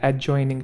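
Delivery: "एडजॉइनिंग" with no D before J; silent D. Shown as a demonstration. Teacher repeating the correction, "एडजॉइनिंग" with silent D. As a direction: say "एडजॉइनिंग" as a-joining. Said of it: "जो डी है वो silent है".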